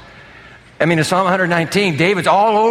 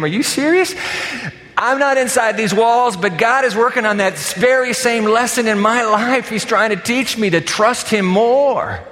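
surprised reply; 6 semitones higher than usual. Retold or imitated. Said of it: "And I said to him".

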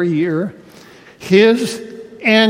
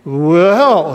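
put-on light Scandinavian accent on Well; drawn-out Scandinavian-accented Well; 3 dB louder than usual. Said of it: "he said with his Scandinavian brogue".

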